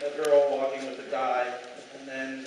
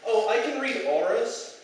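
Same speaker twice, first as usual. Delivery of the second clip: airy date voice; 6 semitones higher, 5 dB louder, slower than usual. Retold or imitated. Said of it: "And she goes".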